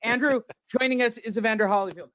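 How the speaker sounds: mock the champ's voice; quick put-on boxer voice; Evander impression. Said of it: "we all know how Evander sounds right now, and I'll do it".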